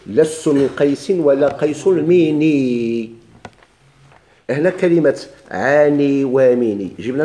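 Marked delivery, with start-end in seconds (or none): 0.1-3.1 slow chanted line of poetry; teacher chanting the verse to the class; reciting the verse. Shown as a demonstration. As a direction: intone it slowly. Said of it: "يقول الإمام رحمه الله".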